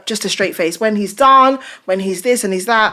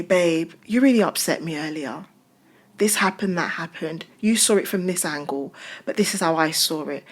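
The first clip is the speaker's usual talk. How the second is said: soft quoted complaint; 3 semitones lower, 6 dB quieter than usual. Retold or imitated. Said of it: "and I say".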